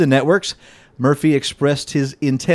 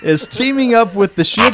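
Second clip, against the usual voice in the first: creepy vulture croak; 6 semitones higher than usual. Acted. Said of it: "Read it like a vulture".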